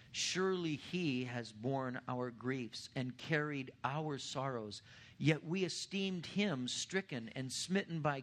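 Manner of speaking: slow, solemn reading of scripture. Acted. Pastor to congregation reading Isaiah fifty-three, slow and solemn. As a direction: read it out deliberately, weighing each phrase.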